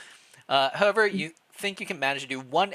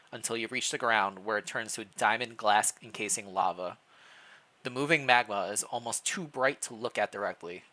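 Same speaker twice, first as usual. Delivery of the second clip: measured storybook narration; story narration. Acted. Player narrating the king's walk through the castle, storytelling. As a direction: read the scene like a novel, drawing them in.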